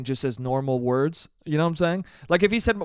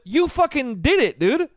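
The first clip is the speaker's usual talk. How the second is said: high, incredulous; exasperated outburst; 7 semitones higher than usual. Real, not acted. Venting about the doctor, high and incredulous. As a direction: stress on did in disbelief.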